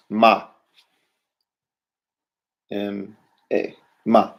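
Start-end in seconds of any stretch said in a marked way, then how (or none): 2.7-4.3 M A, then ma, letters first then the word; spelled then said. Shown as a demonstration. Teacher spelling then blending a word for students. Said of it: "All right, what?".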